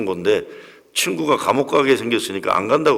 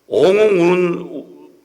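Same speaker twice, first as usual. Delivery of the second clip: wailing cry; 7 semitones higher, 5 dB louder, much slower than usual. Retold or imitated. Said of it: "근데 우는데".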